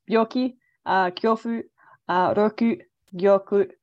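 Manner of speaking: careful foreign word reading; Japanese words read out. Shown as a demonstration. Interviewer carefully reading out the Japanese rhyme words. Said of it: "please excuse my pronunciation".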